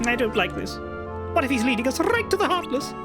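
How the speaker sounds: high, fast worried duck; Donald Duck voice. Acted. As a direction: fret like a nervous cartoon duck. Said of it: "Donald Duck voice".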